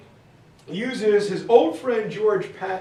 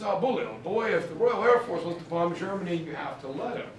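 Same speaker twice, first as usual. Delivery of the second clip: Churchill impression; 4 dB quieter, faster than usual. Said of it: "And Churchill says".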